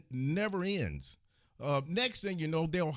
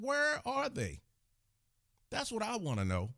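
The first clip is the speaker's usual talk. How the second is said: higher, rising indignant demands; mad as hell; 7 semitones higher than usual. Real, not acted. Angry vlogger demanding where the authorities are, pitched high. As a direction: fire off outraged questions, voice climbing. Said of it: "I'm mad as hell".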